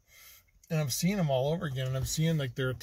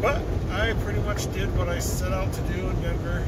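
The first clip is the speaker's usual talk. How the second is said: lightly held put-on voice; 3 semitones higher, 5 dB louder than usual. Vlogger signing off to viewers from Wyoming, lightly in a put-on voice. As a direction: keep the odd voice going, lightly. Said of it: "I don't know why I'm talking like this".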